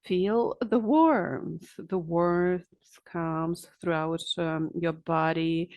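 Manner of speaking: slow, calming relaxation instructions. Shown as a demonstration. Therapist guides a client through shoulder relaxation, very calm. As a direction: draw the words out calmly, soothing someone into relaxation. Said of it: "with a very calm voice we say".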